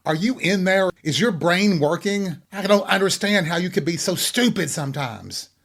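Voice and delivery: high-pitched exasperation. Retold or imitated. Host mimics talking to a stupid person, high-pitched and exasperated. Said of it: "unleash your high-pitched voice".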